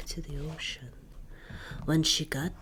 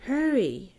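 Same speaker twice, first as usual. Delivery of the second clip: urging; 6 semitones higher, 6 dB louder than usual. Acted. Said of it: "urged Moana".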